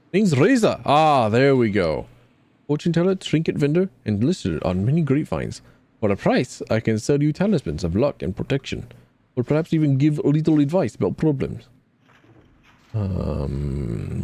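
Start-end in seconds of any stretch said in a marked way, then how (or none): 0.1-11.7 a hint of a sly market seer; fortune teller Reza. Reza introduces themself.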